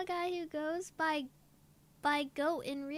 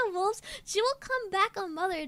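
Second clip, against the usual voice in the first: lighter repeat of the slogan, a touch quicker; calmer slogan; 4 dB louder, faster than usual. Shown as a demonstration. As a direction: say it again, less shouted. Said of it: "Can we get that on a shirt".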